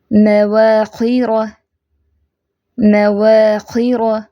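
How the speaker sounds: very slow, drawn-out recitation; slow tajweed demo. Shown as a demonstration. Teacher models an example of ra, slow recitation. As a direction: stretch each syllable of मवाखिर evenly.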